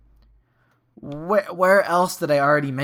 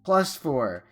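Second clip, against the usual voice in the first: clear, slow teacher voice; 3 semitones higher than usual. Shown as a demonstration. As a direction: spell it out like a kindergarten teacher. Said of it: "In my teacher voice".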